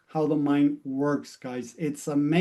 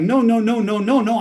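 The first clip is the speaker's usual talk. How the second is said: quick, louder protesting no's; alarmed refusal, higher; emphatic denial; 5 semitones higher, 4 dB louder than usual. Retold or imitated. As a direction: push the idea away hard. Client rejects being like mom.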